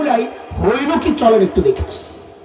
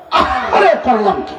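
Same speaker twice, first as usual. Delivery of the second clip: anguished sigh; 3 semitones higher than usual. Shown as a demonstration. Preacher showing the crowd how to lament. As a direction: wail আহারে as if in pain. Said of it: "কপালে একটা বাড়ি মারেন আর বলেন".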